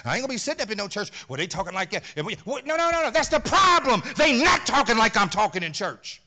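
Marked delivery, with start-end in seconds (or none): none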